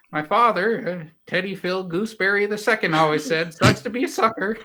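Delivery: cheeky orphan. Acted. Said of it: "This guy's savage".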